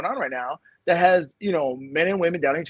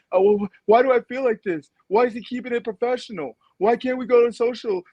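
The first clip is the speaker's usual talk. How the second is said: lightly mimicked puzzled women, pitched higher; mock complaint; 6 semitones higher than usual. Imitating women left out at work, mock complaint. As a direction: imitate a higher-voiced plaintive questioning.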